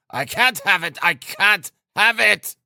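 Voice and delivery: high, strained exasperation; irritable. A narrator's reading. Sick son interrupting his mother, high irritable outburst. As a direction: repeat it fretfully, stretching the second one. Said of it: "he repeated irritably".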